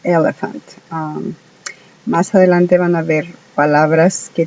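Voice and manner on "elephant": elephant said again, E's sounded; English word elephant. Shown as a demonstration. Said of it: "se pronuncia". ("elephant" con las E sonando)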